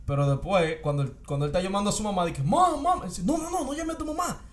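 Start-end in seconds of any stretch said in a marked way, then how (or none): 2.4-3.0 put-on high frightened kid calling out; squeaky panicked cry for mom; child calling mom. 3.2-4.4 high, put-on voice pleading; mock creepy high voice; imitated creepy man.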